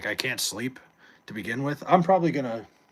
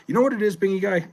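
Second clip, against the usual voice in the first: louder and higher, eager to answer; fired up; 9 semitones higher, 6 dB louder than usual. Real, not acted. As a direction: jump in excitedly with the answer. Excitedly answering a chat question.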